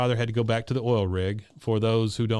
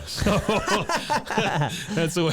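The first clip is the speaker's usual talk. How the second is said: laughing out the line, louder; cracking up mid-sentence; real laughter breaking through; 9 semitones higher, 4 dB louder than usual. Real, not acted. Cracking up at own joke.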